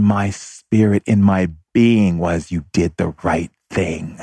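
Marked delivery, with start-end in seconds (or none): 2.5-4.2 slow, weighty pronouncement; solemn inner voice. Retold or imitated. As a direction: let each word land slowly, as if from the spirit. Inner spiritual voice he kept hearing.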